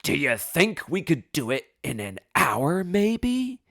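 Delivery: mock-patient sarcasm, rising high on "maybe"; withering judge. Judge glaring at a clueless defendant, withering sarcasm. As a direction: imitate an unimpressed judge needling a novice. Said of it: "he just glares at me and goes".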